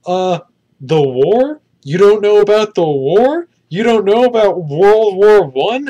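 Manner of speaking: high, loud, slow mocking disbelief; mock Chris Pine line the film could have had, loud and incredulous; clueless American. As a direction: ham up a dumb condescending American. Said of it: "Chris Pine's like".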